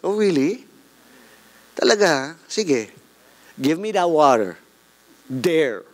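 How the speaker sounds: dry, sarcastic "oh, really". Acted. The woman mocking the stranger, sarcastic. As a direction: say it like you don't believe a word. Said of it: "It was more like a sarcastic".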